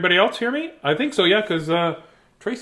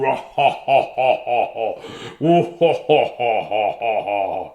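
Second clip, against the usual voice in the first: hearty laugh; 4 semitones lower than usual. Acted. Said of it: "the hearty roar like nobody had ever heard".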